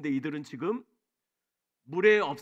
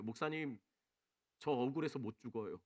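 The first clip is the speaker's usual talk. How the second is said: imitating tearful plea; 6 semitones lower, 9 dB quieter than usual. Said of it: "갑자기 오열하시면서".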